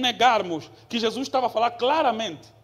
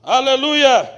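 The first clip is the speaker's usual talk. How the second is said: shouted hallelujah; 4 semitones higher, 12 dB louder, slower than usual. Acted. Shouted praise after sermon point.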